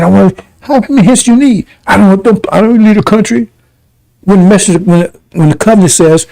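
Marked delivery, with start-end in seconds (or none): 0.0-3.5 mildly higher mocking quote; mock Farrakhan. Preacher quoting Farrakhan with mild mockery, higher. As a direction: toss his words back up high. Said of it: "That's what Farrakhan said".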